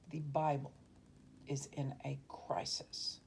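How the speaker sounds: "is in a crisis" slowed right down, word by word; emphatic repeat. Real, not acted. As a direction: say it deliberately, drawing out "is in a crisis". Says it again for emphasis.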